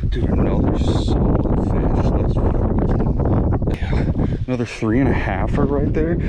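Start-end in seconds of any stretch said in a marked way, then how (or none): 2.1-4.4 triumphant. Real, not acted. Another fish landed.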